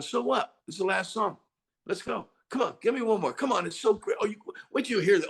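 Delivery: high, eager egging-on; encouraging producer. Retold or imitated. Producer brushing off the singer's strain, high-pitched urging. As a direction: imitate a producer hyping up a worn-out singer. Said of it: "then he starts encouraging you".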